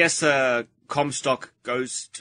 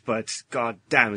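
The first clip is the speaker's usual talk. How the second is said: normal talking voice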